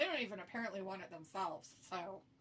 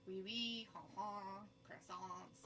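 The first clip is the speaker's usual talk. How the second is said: mock French accent; slower than usual. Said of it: "They have French accents".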